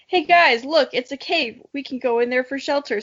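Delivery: shouted. Acted. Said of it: "shouted over the rain".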